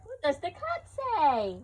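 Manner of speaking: high, loud, drawn-out question; playful coaxing. Real, not acted. Parent coaxing toddler to answer.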